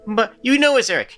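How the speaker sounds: put-on whiny kid voice. Shown as a demonstration. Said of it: "whinier and very, very nasal".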